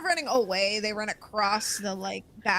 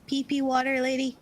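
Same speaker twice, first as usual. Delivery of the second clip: put-on high, sing-song kid's taunt; taunting child voice; 4 semitones higher than usual. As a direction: tease her like a bratty child.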